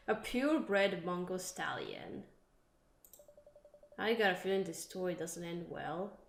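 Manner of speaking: lightly voiced heartbroken horsewoman, wistful; a hint of a lovesick rider remembering him; mildly wistful jilted girlfriend; jilted lover. Voices horse owner telling story.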